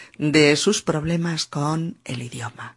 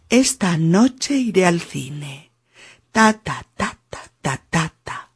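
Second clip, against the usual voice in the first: even Spanish syllable-timed rhythm on "Esta noche iré al cine", tapped out ta ta. Shown as a demonstration. Teacher showing the student the Spanish sentence rhythm. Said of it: "Con ritmo español".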